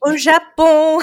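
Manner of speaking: loud, high mock-triumphant announcement; mari enthousiaste imité. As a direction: blurt it out big, imitating an excited husband. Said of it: "mon mari m'a dit". (imitation enjouée du mari, lancée fort et haut)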